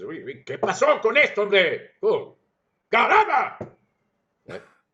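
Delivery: very loud, high, insistent angry shout. Giving an example of how an angry person sounds: angry, insistent. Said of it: "Ahí tienes a alguien enojado".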